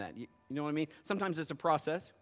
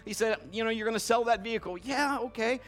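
loud, raised-pitch sermon delivery; full-force preaching; 5 semitones higher, 7 dB louder than usual. Real, not acted. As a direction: drive every phrase home to the congregation.

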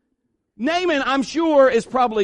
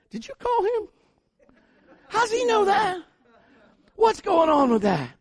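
much higher, stunned questioning voice; amazed suspicion; 10 semitones higher than usual. Retold or imitated. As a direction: act baffled someone knew. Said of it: "I said".

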